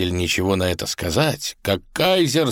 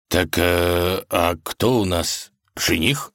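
astonished tsar; slower than usual. Acted. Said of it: "изумился царь".

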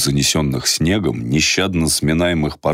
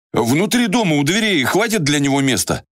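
put-on young man voice; 12 semitones higher than usual. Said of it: "вклинился в разговор Ярик".

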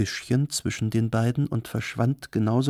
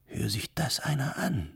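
high, soft, scandalised whisper; 5 semitones higher, 5 dB quieter than usual. A narrator's reading. Arab girl reacts to the tall tale, whispering. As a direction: whisper it aside in disbelief. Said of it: "flüsterte die Araberin".

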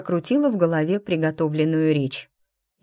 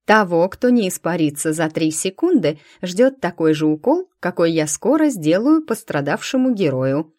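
строгий, громкий тон врача; пригрозить всерьёз; сурово; 4 dB louder than usual. Acted. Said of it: "сурово проговорила". (врач грозит посетителям уколом, сурово)

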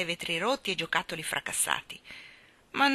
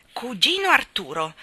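louder, rising call at the door; calling again; 5 semitones higher, 8 dB louder than usual. Acted. Mary Poppins calling her cousin again, rising. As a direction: call once more, coaxing.

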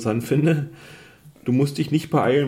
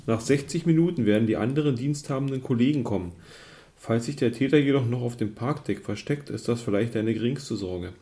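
story narration. A narrator's reading. Liest Spielbuch vor.

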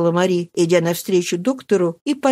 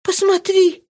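mild alarm; 13 semitones higher than usual. A narrator's reading. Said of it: "могла только проговорить Мари".

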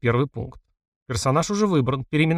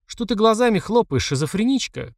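shouted insult; 8 semitones higher than usual. A narrator's reading. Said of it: "крикнул Крит".

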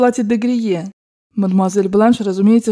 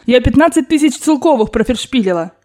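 higher, vexed exclamation; exasperated confession; 4 semitones higher than usual. Acted. Grandmother telling her servant of her loss, exasperated. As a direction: blurt out the loss crossly.

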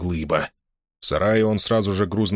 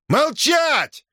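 furious yell; 3 dB louder than usual. A narrator's reading. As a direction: roar it high and loud. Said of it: "заорал Шильников". (яростный крик, резко и высоко)

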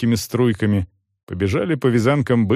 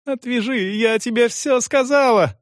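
much higher, frantic; screaming plea; 12 semitones higher than usual. A narrator's reading. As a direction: shriek her last plea. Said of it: "орала Франческа".

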